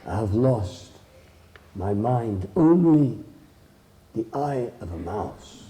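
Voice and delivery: lightly voiced grave confession with long pauses; sorrowful wolf. Wolf tells the mouse of lost memory, mildly sorrowful. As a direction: admit the loss haltingly, a touch mournful.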